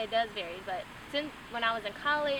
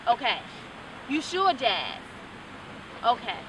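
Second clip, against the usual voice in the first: louder fussing little sister; caring sister; 5 dB louder than usual. Retold or imitated. Imitating her sister's repeated okays to Jazz, loud and eager. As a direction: keep checking on her, anxious to help. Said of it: "She be like".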